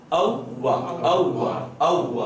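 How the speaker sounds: repeated "اووا", lips rounded then parting; rounded waw. Shown as a demonstration. Teacher drilling the corrected waw for students, rounded articulation. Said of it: "ہونٹوں کو گول کرنا اور الگ ہونا".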